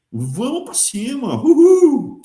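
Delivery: high, mock-triumphant whoop; mock cheering. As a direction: cheer it on with a drawn-out, loud high "uhul". Torcida irônica pelo enriquecimento. (comemoração debochada)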